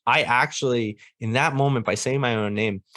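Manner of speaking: ordinary talk, nothing marked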